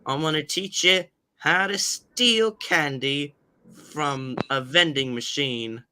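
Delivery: slow, lightly voiced clever engine; a hint of a sly teacher; Toby voice. Shown as a demonstration. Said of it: "kinda like this".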